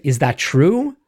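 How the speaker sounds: TRUE lifted at the end; rising question landing on TRUE; questioning reply. Acted. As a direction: ask it with a rise on TRUE. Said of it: "We might say".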